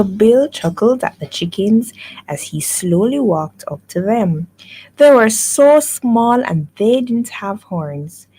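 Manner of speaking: animated read-aloud with lively rises and falls; story narration. A narrator's reading. Tutor reads farmyard story to pupil, animated storytelling. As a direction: read it expressively to a young pupil.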